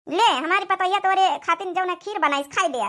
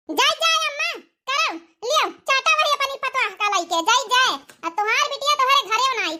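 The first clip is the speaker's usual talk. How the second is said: hurt huff; 6 semitones higher than usual. Acted. Daughter storms off hurt.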